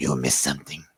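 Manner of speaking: hushed, very low half-whisper. Voicing a character speaking to the others as they walk, half-whispering. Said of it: "he kind of whispers. He says".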